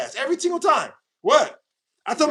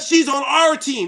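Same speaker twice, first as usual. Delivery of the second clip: mock commenter; 4 semitones higher, slower than usual.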